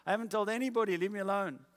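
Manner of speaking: retold irritated plea to be left alone; mock exasperation. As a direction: imitate a husband fed up with nagging. Samson retold fending off crying wife.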